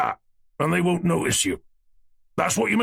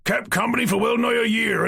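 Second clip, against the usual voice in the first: emotional outburst; 11 semitones higher than usual. A narrator's reading. Old man's emotional outburst.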